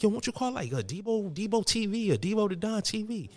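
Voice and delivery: high-pitched Puerto Rican gangster buddy; gangster friend impression. Gangster friend pitching a YouTube channel name, high-pitched impression. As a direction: pitch way up, imitating an excited pal. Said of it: "one Puerto Rican guy who's a gangster".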